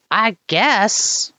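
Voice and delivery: high-pitched goblin reply. Acted. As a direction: squeak it out like a nervous little goblin. GM voicing goblin NPC.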